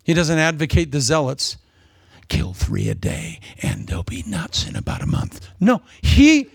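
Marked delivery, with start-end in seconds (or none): 2.3-5.5 mock zealot. Mocking a zealot.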